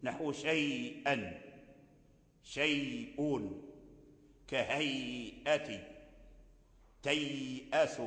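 slow, low demo with a lengthened glide in كهيئة; medium madd. Shown as a demonstration. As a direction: hold the yā or wāw before the hamza in شيئا and سوءة. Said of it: "فورش يقرأ بالتوسط". (مدّ اللين بالتوسط في شيء وسوءة)

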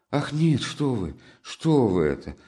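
high, alarmed denial; startled protest. A narrator's reading. Sonya, frightened, denies Katerina ever beat her, high and alarmed. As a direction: recoil in fright and deny. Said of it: "с каким-то даже испугом".

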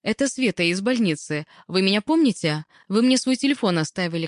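lightly voiced nervous stranger; timid female caller. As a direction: introduce yourself tentatively. Timid nurse introduces herself by phone.

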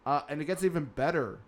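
dry sarcasm, fake enthusiasm; sarcastic. Real, not acted. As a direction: sell it like you don't mean it. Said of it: "Can you sense the sarcasm in my voice?".

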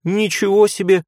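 be offended inside your head; inner indignation. A narrator's reading. Hero silently outraged at the nurse's remark, indignant. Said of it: "мысленно возмутился я".

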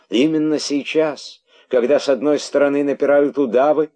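indignant tirade. A narrator's reading. King berating the herald about the royal text, indignant. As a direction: hammer out rhetorical questions in outrage.

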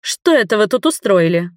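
playfully stern scolding; pretend-angry mother; mock stern. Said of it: "нарочито грозным тоном".

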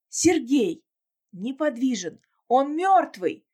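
horrified cry. Acted. Finds husband's body by river.

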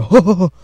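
loud, high ho ho ho; mock laugh. Podcaster imitates family laughing downstairs, loud mock laugh. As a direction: imitate a booming belly laugh. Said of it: "I can hear people laughing downstairs".

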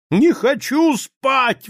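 very high, loud, slow yell; drunken yell. A narrator's reading. Drunk husband yells at his wife, loud and slow. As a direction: refuse like a stubborn drunk. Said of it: "кричал Мечислав Фелицианович".

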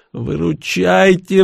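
high, slow drawn-out plea; drawn-out pleading. Acted. Igor pleading with them for rescue, slow and drawn out. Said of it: "взмолился Игорь".

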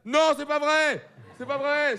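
overdone gasp of disbelief; mock astonishment. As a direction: act shocked for the audience.

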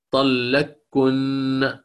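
طلقكن slowly, with the qaf merged into the doubled kaf; drawn-out طلقكن with the qaf assimilated, no qaf heard; idgham pronunciation. Shown as a demonstration. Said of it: "هكذا". (طلقكن بالإدغام ببطء)

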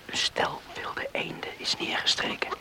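excited hushed whisper. Acted. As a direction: point out the ducks under your breath. Spotting ducks, keeping quiet. (opgewonden gefluister)

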